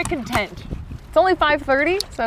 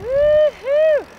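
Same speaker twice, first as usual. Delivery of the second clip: excited; 6 dB louder than usual. Real, not acted. Arriving in Sequim.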